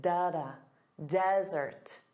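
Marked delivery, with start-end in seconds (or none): 0.0-0.5 da-da with the first da strong; stress pattern tapped out. Shown as a demonstration. Teacher beating the rhythm of desert, first beat strong. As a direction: beat out da-da, heavy then light. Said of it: "the syllable stress is on the first sound".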